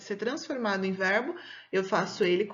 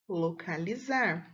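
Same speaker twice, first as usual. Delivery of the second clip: slow, lower "localizar"; sounded-out answer; 4 semitones lower, 4 dB quieter, slower than usual. Shown as a demonstration. Teacher forming a verb for pupils, slow and deliberate. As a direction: draw out "localizar" syllable by syllable, pitched down.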